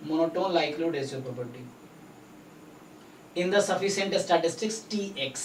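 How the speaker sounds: slow, word by word, for notes; dictating pace; slow dictation. Shown as a demonstration. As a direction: spell it out slowly so they can write. Tutor dictating theorem statement.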